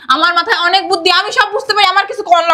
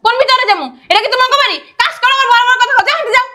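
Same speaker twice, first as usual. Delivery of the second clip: worked-up, raised-pitch protest; heated refusal to go in; angry yelling; 2 semitones higher than usual. Acted. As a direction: argue noisily and indignantly. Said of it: "এত চিল্লাচিল্লি করেন".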